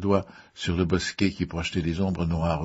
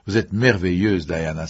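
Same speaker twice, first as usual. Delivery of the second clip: louder burst of praise; admiring exclamation; 6 dB louder than usual. A narrator's reading. Haydn praises Diana's performance, admiring exclamation. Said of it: "s'exclama Haydn".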